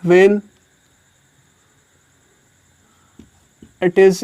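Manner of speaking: very slow, word by word with long pauses; slow dictation. Shown as a demonstration. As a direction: dictate the rule slowly for notes. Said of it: "तो कब दी होगा?".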